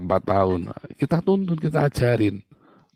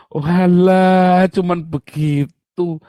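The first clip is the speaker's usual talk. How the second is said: surprised realization; 4 semitones higher, 5 dB louder, much slower than usual. Retold or imitated. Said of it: "Omanya bilang".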